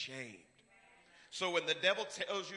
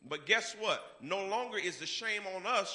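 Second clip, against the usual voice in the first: ordinary talk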